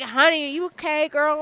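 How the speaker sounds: camp concierge. Retold or imitated. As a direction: call out like a flamboyant concierge, pitched high. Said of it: "He's like".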